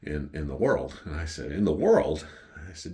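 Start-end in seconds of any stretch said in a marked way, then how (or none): 1.5-2.2 punchier echo of a boast; questioning echo. Retold or imitated. Customer questions the waiter's best-sandwich boast, questioning echo. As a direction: throw the claim back, challenging it.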